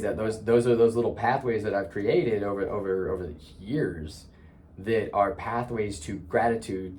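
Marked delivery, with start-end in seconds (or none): none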